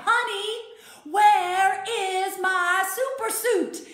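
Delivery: high, loud, laughing mock yell, slow and drawn out; hollering for the suit through laughter; Frozone yelling. Frozone calling to his wife, a hammed-up loud yell. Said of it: "And he yells to his wife".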